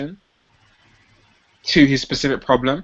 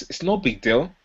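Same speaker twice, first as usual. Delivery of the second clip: disarming casual; 3 dB quieter than usual. Shown as a demonstration. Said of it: "a disarming tone".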